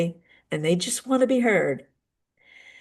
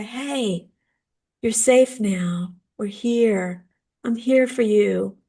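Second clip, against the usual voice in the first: soothing parent. Retold or imitated. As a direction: hold them close with your voice.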